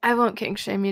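normal talking voice

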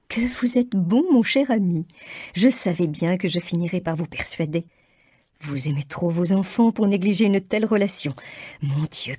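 high, gushing delight; mother gushes gratitude to her husband; overjoyed mother. A narrator's reading. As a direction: gush with relief and joy.

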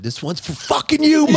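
hammed-up stage shout to mom; mock dedication shout. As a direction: belt it out to mom in the crowd. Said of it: "I'm like".

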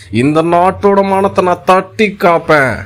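slow, drawn-out parody of a heroic line; mock tame fierceness. Comedian mocking a film hero's big dialogue, slow and tame. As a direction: deliver a fierce vow far too gently, dragging it. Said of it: "ஆக்ரோஷமா பேச வேண்டிய டயலாக ஆட்டுக்குட்டி தடவை கொடுத்த மாதிரியே".

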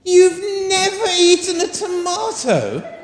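high, slow, amazed question; surprised. Shown as a demonstration. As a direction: sound truly astonished at it. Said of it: "I was showing more surprise".

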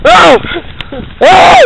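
high, loud shouts of pain; pained shouting. Real, not acted. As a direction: yell after a kick in the face. Kicked in the face on ride.

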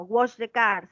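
wash the car with every sound said; pronúncialo todo; pronounced fully. Shown as a demonstration. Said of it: "se pronuncia todo".

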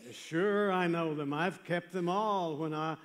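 loud, high, breezy self-assurance; cocksure young man. Retold or imitated. Young man answers Jesus about the commandments, cocksure.

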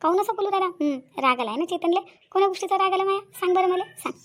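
wheedle, stretching the words; sweet-talking. Acted. Woman coaxing an angry lover to explain, sugary high wheedling. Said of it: "अशा चिकन्या चोपड्या गोष्टीत मी फसणार नाही".

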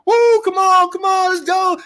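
very high, loud hype shout; hammed-up rally cry; mock hype man shout. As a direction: pump up the crowd, mocking. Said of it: "bunch of people hyping you up".

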